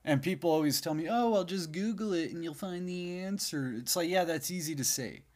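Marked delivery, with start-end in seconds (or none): 1.1-3.7 higher-pitched, dismissive mimicry; mock advice-giver. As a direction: imitate someone breezily giving useless advice. Mimics people giving easy advice.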